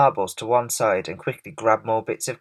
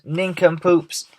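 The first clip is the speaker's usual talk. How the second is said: high, loud string of insults; yelled; 5 semitones higher, 5 dB louder than usual. A narrator's reading. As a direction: hurl the insults as loud as you can. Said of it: "he yelled".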